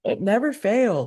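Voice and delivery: talking through a yawn; stretched yawn on the words. Real, not acted. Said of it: "Why is it that I haven't yawned all morning".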